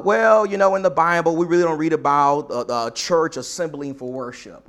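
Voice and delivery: put-on protest, pitch easing down as it goes; mock objecting Christian. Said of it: "Christians, you know, who, who say".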